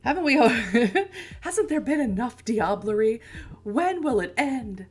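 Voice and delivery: high, loud hammed-up lament; theatrical mock lament; mock despair. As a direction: wail it like a tragic heroine.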